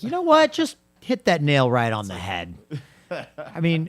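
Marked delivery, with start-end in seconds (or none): 0.0-2.6 mock sudden inspiration. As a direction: act out a founder struck by a bright idea. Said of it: "they were like".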